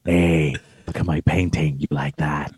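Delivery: low, hushed and creaky; hushed vocal fry. Pretend. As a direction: drop into a breathy, crackling murmur. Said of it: "Imagine our podcast being like this".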